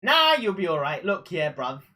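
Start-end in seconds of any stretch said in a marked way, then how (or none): 1.1-1.8 London roadman slang, played up; london roadman accent. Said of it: "turn full on London".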